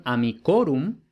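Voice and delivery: "amicorum" with no accent on the I; stress off the I. Shown as a demonstration. Latin teacher contrasting the longer form amicorum, stress moved off the I. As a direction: let the I of "amicorum" pass unstressed, accent later on "co". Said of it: "no tiene el acento en la I".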